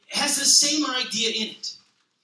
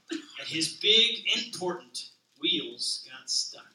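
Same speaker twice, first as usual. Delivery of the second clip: gentle, even picture-book read-aloud; reading to children. A narrator's reading. Pastor reading a children's book to the congregation, gentle read-aloud. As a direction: read it like a bedtime story to a toddler.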